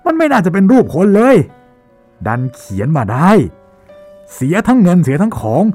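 high, loud furious rant at a painter; furious shouting. Acted. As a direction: rage and yell, pitch climbing high. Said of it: "บริพาทออกมาด้วยเสียงดังลั่นสนั่นห้อง". (ตะโกนด่าเสียงดังลั่นด้วยความโมโห)

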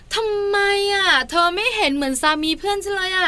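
high, whining mock reproach; acted wife's aggrieved complaint; comparing wife. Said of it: "เปรียบเทียบ อันนี้เจ็บใจสุด".

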